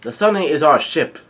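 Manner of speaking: light imitation of someone yelling; retold yell. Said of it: "he yells out".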